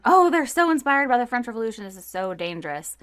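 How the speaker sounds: high, breathless mock panic about the French; mock paranoid alarm. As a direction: lampoon the nervous British, gasping with fake alarm. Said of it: "Everyone's like".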